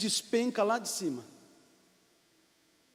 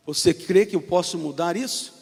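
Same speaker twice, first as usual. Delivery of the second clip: lower, calm divine voice; voice of God; 5 semitones lower than usual. Acted. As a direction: answer from above, steady and low. God questions the climber.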